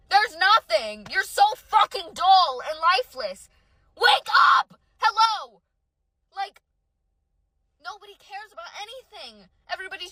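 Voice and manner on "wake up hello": loud, high wake-up call; exasperated shout. Real, not acted. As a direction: shout to jolt them awake. Exasperated rant at apathetic people.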